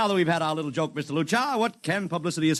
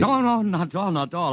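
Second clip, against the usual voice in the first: eager protest; 4 semitones higher, 4 dB louder than usual. Acted. Hastily accepts the million-dollar deal.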